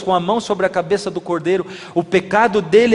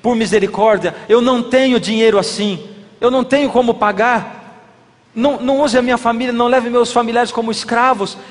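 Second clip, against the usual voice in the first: begging debtor; 4 semitones higher than usual. Retold or imitated. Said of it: "aquele homem disse assim".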